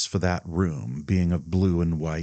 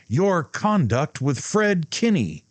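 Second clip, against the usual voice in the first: higher, slower, loud accusation; shouted; 10 semitones higher, 4 dB louder, slower than usual. A narrator's reading. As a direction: hurl the accusation slowly. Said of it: "George shouted".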